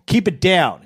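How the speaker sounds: retold curt order. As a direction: imitate a cop in a bad mood. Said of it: "He's in a bad mood".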